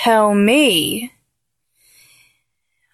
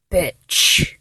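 whispered name; 4 semitones lower than usual. Acted. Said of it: "repeats the name to the listener".

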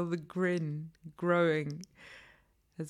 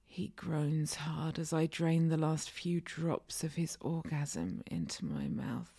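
whispered narration. A narrator's reading. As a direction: whisper it close to the mic.

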